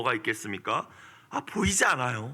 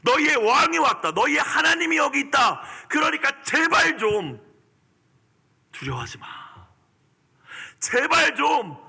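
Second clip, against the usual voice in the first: much higher, louder pleading proclamation; commanding Jesus; 10 semitones higher, 4 dB louder than usual. Retold or imitated. Jesus declaring himself to the frightened disciples, forceful pleading proclamation. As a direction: proclaim it with urgent authority. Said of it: "라고 말씀하시는 거예요".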